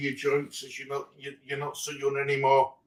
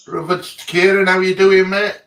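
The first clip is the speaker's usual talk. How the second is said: loud hearty greeting; 4 semitones higher, 7 dB louder than usual. Real, not acted. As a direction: call out to a mate joining the show. Hearty greeting to co-host joining.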